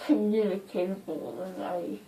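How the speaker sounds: slow, words round gauze; mouth full of gauze. Real, not acted. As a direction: talk around gauze in mouth. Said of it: "I'm talking really weird".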